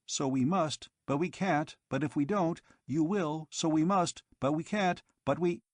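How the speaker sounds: robot stuck in a looping argument; malfunctioning robot loop. Acted. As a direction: circle the logic like a glitching machine. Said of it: "he kept repeating it over and over again".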